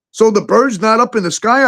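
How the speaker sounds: high, exasperated disbelief; mock outrage at a silly rule; retold outrage. Retelling the TikTok ban to a friend, high and exasperated. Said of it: "I'm like".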